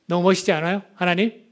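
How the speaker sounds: usual speaking voice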